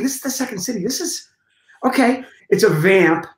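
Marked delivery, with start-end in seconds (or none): 0.0-2.2 inner thought. Retold or imitated. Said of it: "I'm thinking".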